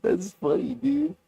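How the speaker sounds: stoner. Real, not acted. Laughing still.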